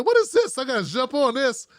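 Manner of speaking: jumps up high on the first words in surprise; surprised inner voice. Retold or imitated. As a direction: play the sudden urge to pounce on it. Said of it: "I'm thinking".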